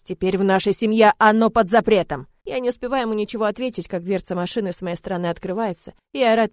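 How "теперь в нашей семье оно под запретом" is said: roaring father. Acted. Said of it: "ревёт отец".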